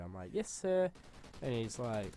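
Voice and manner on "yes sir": high-pitched, put-on schoolboy reply; mock obedient pupil. Pupil made to say sir, high mock-obedient voice. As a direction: imitate a pupil squeaking out obedience. Scared pupil answering the teacher.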